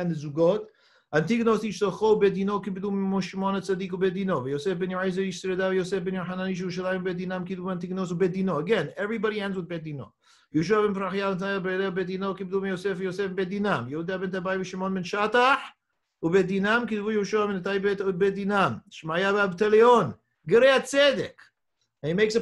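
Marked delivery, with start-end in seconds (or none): 1.1-8.6 brisk, level-pitched recitation of a text; reading aloud. Real, not acted. Teacher reading the Hebrew text to class, brisk recitation. 10.5-21.3 steady Hebrew recitation, building to a loud finish; reading aloud. Real, not acted. Teacher reciting the chain of tradition, reading aloud.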